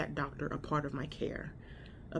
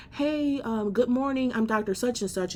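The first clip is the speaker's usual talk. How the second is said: higher-pitched, mildly loud mock greeting; imitated loud doctor; 6 semitones higher, 3 dB louder than usual. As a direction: announce yourself like a self-important doctor. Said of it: "very extremely loud".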